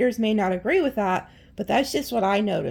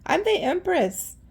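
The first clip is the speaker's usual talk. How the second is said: haughty Empress; 4 semitones higher than usual. Pretend. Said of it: "You're like".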